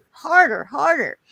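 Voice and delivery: high, loud moaning "harder" over and over; mock passionate moaning. Retelling the bird's mimicry.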